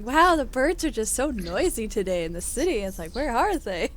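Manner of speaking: imitating a baffled, amazed aunt; retold amazement. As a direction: marvel aloud, puzzled. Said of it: "she kept going".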